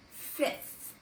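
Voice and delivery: "fifth" with a drawn-out TH at the end; clear TH ending. Shown as a demonstration. Teacher showing a tricky word, "fifth" with clear final TH. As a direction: finish "fifth" on a clear TH sound. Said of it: "that T H sound at the end".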